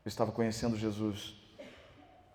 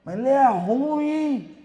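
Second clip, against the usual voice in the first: slow, loud and higher "Ele é ruim"; inner critic voice; 13 semitones higher, 11 dB louder, much slower than usual. Retold or imitated. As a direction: drag it out like a haunting taunt. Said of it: "toda hora que eu abri o microfone". (a voz interior acusadora, lenta e alta)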